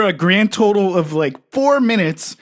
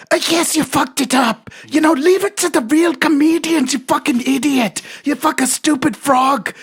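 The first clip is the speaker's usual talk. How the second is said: mock accent; 5 semitones higher than usual. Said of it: "did I do that accent right".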